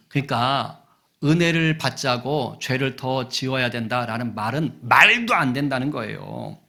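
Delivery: usual speaking voice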